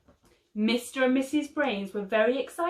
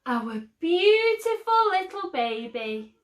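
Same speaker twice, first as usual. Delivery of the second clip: sighing; 9 semitones higher, 4 dB louder than usual. A narrator's reading. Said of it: "sighed Missus Brains".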